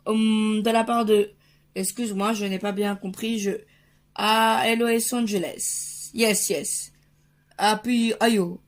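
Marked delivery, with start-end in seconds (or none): 4.1-8.6 French speaker trying American English; attempted American accent. Dad on a call from Los Angeles, attempted American accent. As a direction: put on an American accent over a French one. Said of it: "mon accent américain s'est vraiment bien amélioré".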